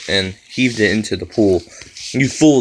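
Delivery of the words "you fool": a wailing cry of rage. A narrator's reading. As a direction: wail it out, high and loud. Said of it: "the old woman wailed".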